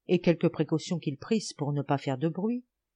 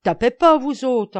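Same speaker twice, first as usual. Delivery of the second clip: high, loud command; urgent order; 7 semitones higher, 10 dB louder than usual. A narrator's reading. Camus stopping comrades about to throw, urgent order. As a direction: cut them short with an order. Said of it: "ordonna Camus aux camarades".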